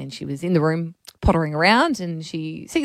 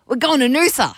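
lightly voiced little girl, higher; a hint of an excited three-year-old; mild kid voice announcing the trip; toddler voice; 5 semitones higher, 3 dB louder than usual. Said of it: "And she goes".

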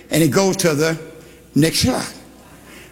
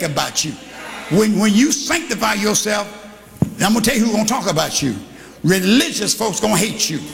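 full-force preaching; 3 semitones higher than usual. Acted. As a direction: drive it home to the pews. Preaching to the congregation.

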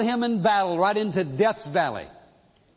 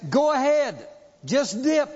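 urging soldiers; 5 semitones higher than usual. Retold or imitated. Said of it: "But they say".

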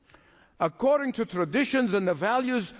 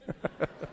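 soft breathy laugh; 3 semitones lower, 9 dB quieter than usual. Real, not acted. Laughing at own joke.

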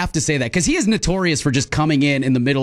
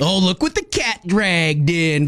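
slow, teasing drawl; sarcastic; slower than usual. Shown as a demonstration. Cohost showing how she jokingly greets someone, sarcastic drawl. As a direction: tease someone arriving late. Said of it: "Very sarcastic".

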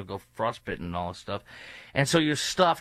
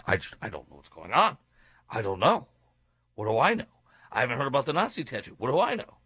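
feigned ignorance, pitch jumping up at phrase ends; mock cluelessness. Host mimicking evasive Democrats on a scandal, mock clueless. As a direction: play dumb with exaggerated rising protests. Mocking Democrats who dodge the question.

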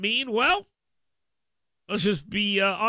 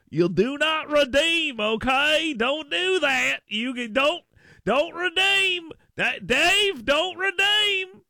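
high, slow mock Indian-accented demand; drawn-out, high-pitched Indian accent; 8 semitones higher, 3 dB louder, slower than usual. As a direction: imitate an exasperated caller in an Indian accent. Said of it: "my Indian accent's better than my Southern accent".

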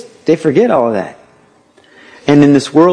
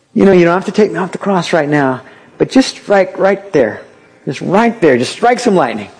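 mock pleading; 4 semitones higher than usual. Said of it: "angels and go".

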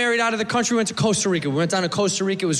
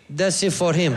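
put-on Costa Rican accent; 3 semitones lower than usual. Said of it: "And the local guy".

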